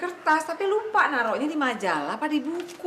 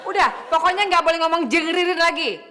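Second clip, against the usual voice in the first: louder stern command; stern order; 3 semitones higher, 4 dB louder than usual. Acted. Wife ordering husband to stay silent, louder and stern. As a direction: lay down the law firmly.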